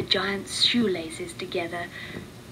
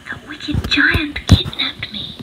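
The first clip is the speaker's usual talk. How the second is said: higher, louder, slow harp voice; harp speaking; 6 semitones higher, 5 dB louder than usual. Acted. The harp explains her kidnapping to Mickey, slowly. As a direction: tell it slowly from the cage. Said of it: "said the harp".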